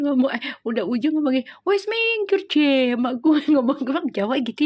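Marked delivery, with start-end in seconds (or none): 1.6-3.0 high-pitched mock-angry Javanese "wes minggir". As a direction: snap it like the annoyed boyfriend, playfully. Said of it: "sampai marah-marah katanya".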